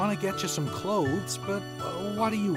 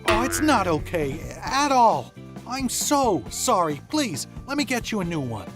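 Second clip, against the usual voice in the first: protest, then apologize with feeling; insistent apology; 2 semitones higher, 4 dB louder than usual. Acted. Boy refusing to be forgiven for the ripped dress, apologetic.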